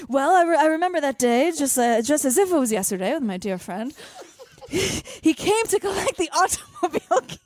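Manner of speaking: mimicking a prim older lady telling a story; imitating Patty. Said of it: "but she's like".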